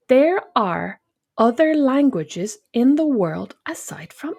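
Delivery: slow, emphatic spelling-out; exasperated retort. Retold or imitated. Actress fed up with questions about her name, exasperated. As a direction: space the words out as if to someone slow.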